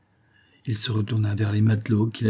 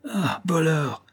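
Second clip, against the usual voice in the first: high-pitched cry of accusation; indignant exclamation; 7 semitones higher, slower than usual. A narrator's reading. Sailor attacks the robber, crying out in indignation. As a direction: exclaim it with no added volume. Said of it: "s'écria Ursko".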